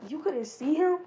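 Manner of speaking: high taunting question, about to laugh; high mocking taunt with laughter bubbling up. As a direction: tease him, barely holding in a laugh. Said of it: "And he was just laughing".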